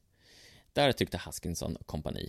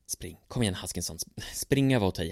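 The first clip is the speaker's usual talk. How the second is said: urgent; faster than usual. Acted. Haskinson urging himself on.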